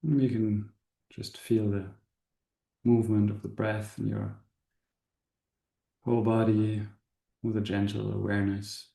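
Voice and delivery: calm guide, long pauses between short phrases; spacious meditation voice, settling at phrase ends; guided meditation. Acted. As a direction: gently lead an inward contemplation, unhurried. Leads a meditation.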